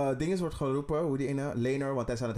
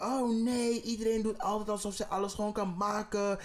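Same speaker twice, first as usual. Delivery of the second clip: higher, heated rant in character; mock outraged rant; 6 semitones higher than usual. Friend acting out Alicent's jealous rant, higher and heated. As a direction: vent like a scorned wife, pitched up.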